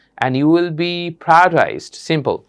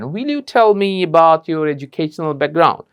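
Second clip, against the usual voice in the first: Will you tell me about your educational background, slow and deliberate; slow model question; much slower than usual. Shown as a demonstration. Teacher demonstrating the will version for the class. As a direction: model it slowly, word by word. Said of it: "will-ও বলতে পারেন".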